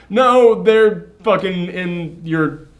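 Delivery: mock outburst of disbelief; exasperated retort. Talking back to a lying kidnapper, exasperated.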